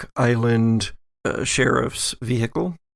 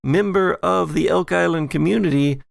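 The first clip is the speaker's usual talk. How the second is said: posh lady voice; 6 semitones higher than usual. Acted. GM voices Allison, higher.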